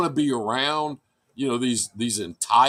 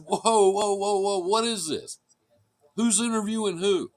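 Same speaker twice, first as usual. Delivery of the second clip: mock disbelief; 6 semitones higher than usual. Retold reaction to the applicant.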